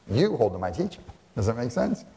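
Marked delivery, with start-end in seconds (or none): 0.1-1.0 "You" emphasized; stress on you. Shown as a demonstration. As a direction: press on "You". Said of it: "This you is emphatic".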